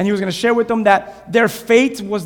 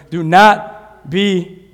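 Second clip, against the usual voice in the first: drawn out, firmly stressed; emphatic reading; 4 semitones lower, 5 dB louder, much slower than usual. Shown as a demonstration. Pastor rereads the verse with conviction after urging, slow and emphatic. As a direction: say it like you mean it. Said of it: "say that like you mean that".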